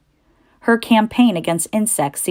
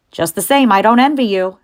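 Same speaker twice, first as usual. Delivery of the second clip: put-on knowing old ewe, higher; old sheep voice; 4 semitones higher, 5 dB louder than usual. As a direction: warn him like a wise old sheep.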